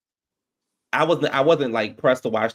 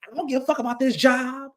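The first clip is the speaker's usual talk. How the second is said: higher, careless brush-off; mock defiant; 11 semitones higher than usual. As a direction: toss it off like you don't care. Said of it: "she was like".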